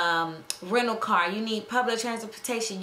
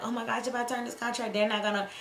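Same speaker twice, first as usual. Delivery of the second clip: timid; 3 dB quieter, faster than usual. Retold or imitated. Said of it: "I used to be so timid and so afraid".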